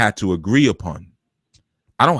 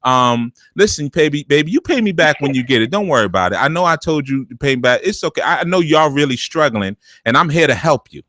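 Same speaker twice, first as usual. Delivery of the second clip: a hint of a sweet, guilt-tripping mom; lightly voiced mother working the guilt angle; manipulative mother; 3 semitones higher than usual. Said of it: "she go".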